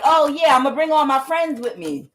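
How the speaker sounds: a light mock of an excited hanger-on; mock eager friend. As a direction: play the eager friend who wants in. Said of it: "It's like".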